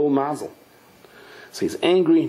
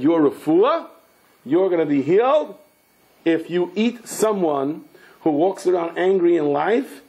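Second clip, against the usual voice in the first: solemn pronouncement; 5 semitones higher than usual. Acted. Sar HaMazel's verdict.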